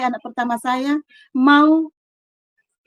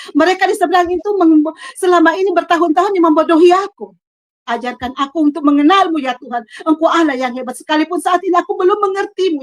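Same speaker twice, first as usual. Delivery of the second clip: louder, pleading prayer that cries out to God; tearful prayer; 3 semitones higher, 4 dB louder than usual. Retold or imitated. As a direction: cry out to God while bowing down in tears. (doa memohon sambil menangis, lebih keras)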